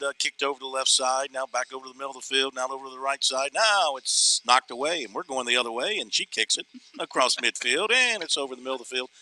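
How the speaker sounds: mock radio play-by-play; hammed-up soccer play-by-play call; frantic mock sports commentary. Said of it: "I'm gonna give you a little play-by-play".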